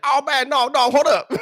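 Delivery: high, loud mock pleading, laughing through it; mocking a panicked guy. Streamer imitating the rival in the hallway, high mock panic. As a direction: squeal it like he is backing off scared.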